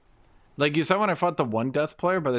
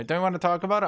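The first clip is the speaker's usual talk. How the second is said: high pleading; 6 semitones higher, much faster than usual. Retold or imitated. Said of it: "He's like".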